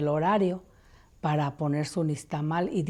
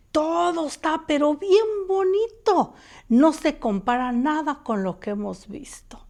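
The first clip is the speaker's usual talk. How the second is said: higher, hushed ghostly friend's voice; voice of the dead friend; 6 semitones higher, 5 dB louder than usual. Retold or imitated. La amiga muerta aparece y habla. (voz de la amiga difunta, más aguda y suave)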